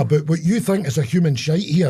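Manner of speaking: mock warning in a light Barbados accent; retold warning with a Barbados lilt. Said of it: "Barbados accent".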